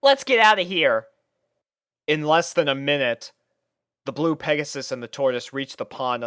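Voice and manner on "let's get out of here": high, loud urgent line; urgent Rainbow. A narrator's reading. Rainbow urging Tank to flee the puppies. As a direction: hurry him along.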